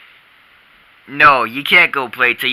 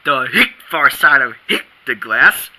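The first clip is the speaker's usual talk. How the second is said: hiccups. Real, not acted. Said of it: "these darn, hick, hick, hiccups".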